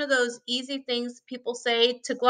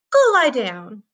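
sharp; 2 semitones higher, 4 dB louder than usual. A narrator's reading. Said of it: "Mom said sharply to dogs".

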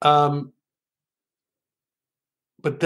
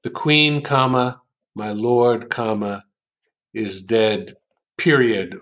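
pauses marked by comma and period; reading out the punctuation. Shown as a demonstration. Teacher spelling out each comma and period. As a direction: punctuate "The queen, comma, my lord, comma, is dead, period" aloud with clear breaks. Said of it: "I want to punctuate it".

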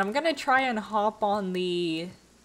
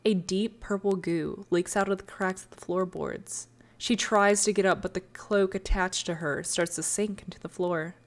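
hushed dramatic storyteller voice; story narration; 3 semitones lower than usual. A narrator's reading. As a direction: tell it like a dark fairy tale. Lore story narration opening.

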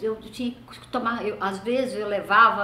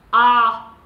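startled ah; 10 dB louder than usual. Retold or imitated. Mom hears someone died.

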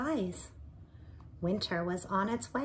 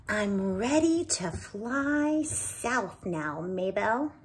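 sad sigh; 5 dB louder, slower than usual. Acted. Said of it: "Binkle sighed sadly".

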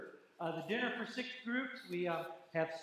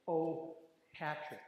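drawn out; much slower than usual. Real, not acted. Proudly reveals Irish name.

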